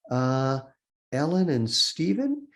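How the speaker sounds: slow, rising, unsure answer; searching guess. Retold or imitated. Mother recalling her children's names, slow and uncertain.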